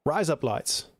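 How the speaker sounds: light Australian accent demo. Shown as a demonstration. Streamer showing chat their trick phrase, Australian accent. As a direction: say it with Australian vowels, like "razor blades". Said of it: "in an Australian accent".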